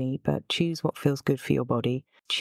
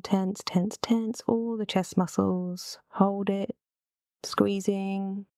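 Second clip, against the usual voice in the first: higher, suspended pitch; holding tension; 4 semitones higher, slower than usual. Real, not acted. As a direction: coach the squeeze and keep it held up. Coaching chest squeeze.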